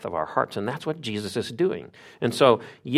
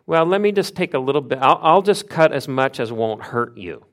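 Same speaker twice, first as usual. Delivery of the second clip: higher, mock-reassuring surgeon voice; hedging surgeon; 3 semitones higher, 4 dB louder than usual. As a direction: imitate a surgeon cautiously minimizing the cut. Voices an imagined hesitant surgeon.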